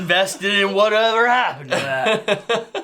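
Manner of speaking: laughing through the words. Real, not acted. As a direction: say it while laughing. Joking about character's trauma.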